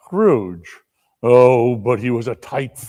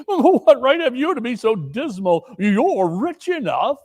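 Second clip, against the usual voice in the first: gay nephew; 10 semitones higher than usual. Acted. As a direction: turn his words back on him playfully. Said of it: "replied the nephew gaily".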